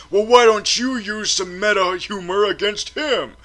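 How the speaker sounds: usual speaking voice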